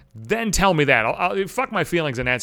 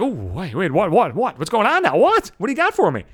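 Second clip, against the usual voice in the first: eager what what. Retold or imitated. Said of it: "I'm like".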